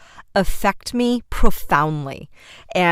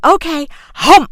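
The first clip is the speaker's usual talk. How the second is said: playful; 9 semitones higher, 8 dB louder than usual. Retold or imitated. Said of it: "And so I'm like".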